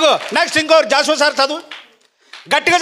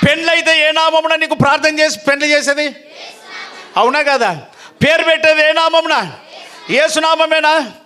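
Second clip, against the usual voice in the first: preaching at full force. Real, not acted. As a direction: hammer each question at the congregation.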